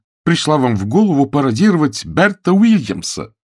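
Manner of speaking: loud, high-pitched indignant question; crying out. A narrator's reading. Woman scolds fiancé for his parody, crying out. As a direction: cry out in outraged disbelief. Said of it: "вскричала она".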